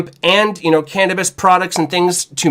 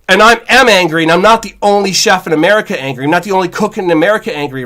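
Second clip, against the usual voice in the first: angry; 2 semitones higher, faster than usual. Real, not acted. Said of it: "so here's where I'm angry".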